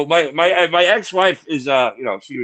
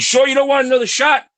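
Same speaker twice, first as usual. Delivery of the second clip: playful flirting; 11 semitones higher than usual. Retold or imitated. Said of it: "I said".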